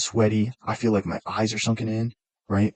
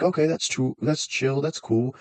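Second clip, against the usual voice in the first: higher, easygoing nurse; chill nurse voice; 4 semitones higher, slower than usual. Retold or imitated. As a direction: play the laid-back nurse. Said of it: "And he was like".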